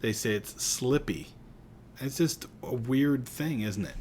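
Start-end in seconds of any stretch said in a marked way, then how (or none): 0.0-1.3 "slippy" leaned on at the end. Shown as a demonstration. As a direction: land on "slippy" with a fall. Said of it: "they don't say it's slippery".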